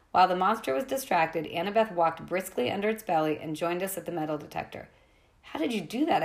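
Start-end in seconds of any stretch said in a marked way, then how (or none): 5.4-6.2 amazed. Acted. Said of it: "I asked her, amazed".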